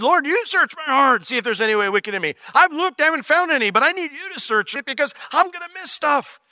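high, pleading prayer; earnest prayer. Retold or imitated. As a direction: ask God sincerely. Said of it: "David said".

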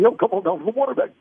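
imitating a slick radio DJ; mock smooth DJ pitch for a store ad; disc jockey voice. Voice actor mimics Kansas City DJs selling the water bank, slick DJ read. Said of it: "they all sounded".

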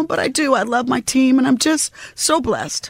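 welling up with gratitude; getting emotional. Real, not acted. Actress thanking her team for their work, getting emotional. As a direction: voice rising with real emotion. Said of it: "I'm gonna get emotional now".

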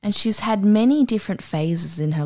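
slow drawn-out hype for the guest; announcer intro. Acted. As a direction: stretch out very special like a showman.

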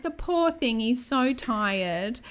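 a touch of a doting midwife; mock sympathetic midwife. Midwife pitying sleeping Lucas.

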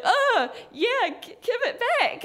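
high, half-laughing, lightly voiced demand; picture yourself catching them and fumbling; feeble mock demand. Tourist imagines confronting the fleeing men, high sheepish lightly voiced demand.

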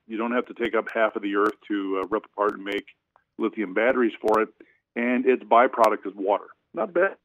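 breaking up on a bad phone line; choppy speakerphone audio; phone speaker. Real, not acted. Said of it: "You're, you're breaking up here".

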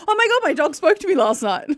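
high, breathless-sounding retold surprise; retold amazement. Host recalls realising her dog spoke to her, amazed. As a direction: recount a stunned realisation. Retold shocked reaction to video.

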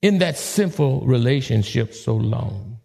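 slow, rising, searching challenge; God questioning. Acted. God confronting the listener, slow searching question. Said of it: "And God's saying".

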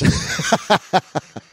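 high, loud laugh; real laugh at own joke. Real, not acted. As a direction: burst out laughing. Laughing at his own line.

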